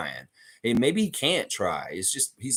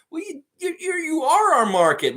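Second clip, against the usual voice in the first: higher and louder, hitting ARE; ranting; 5 dB louder than usual. Real, not acted. Streamer yelling at B C fans they are the market. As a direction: jab it straight at the haters. Ranting at West Coast haters.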